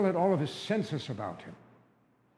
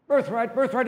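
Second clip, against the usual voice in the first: high, loud and exasperated; impatient dismissal; 9 semitones higher, 7 dB louder than usual. Acted. Famished brother dismisses birthright.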